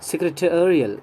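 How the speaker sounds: "सेक्रेटेरियल" as sek-re-TE-ri-al; correct pronunciation. Shown as a demonstration. Teacher giving the class the correct form. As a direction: model "सेक्रेटेरियल" with stress on TE. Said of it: "correct pronunciation है".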